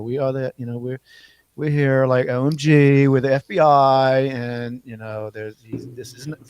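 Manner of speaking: ditzy Valley girl impression; like, totally Valley girl. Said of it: "she sounded like a total Valley girl".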